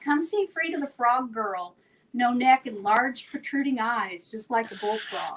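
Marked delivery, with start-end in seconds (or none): none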